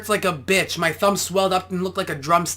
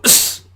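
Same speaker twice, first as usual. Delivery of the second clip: punch grunt; 4 dB louder than usual. Shown as a demonstration. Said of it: "Okay, you go".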